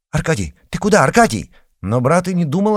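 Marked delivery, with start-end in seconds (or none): 0.1-1.5 raised, higher voice calling a brother back; worried sister calling out after her brother; calling after him. A narrator's reading. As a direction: call out after him anxiously.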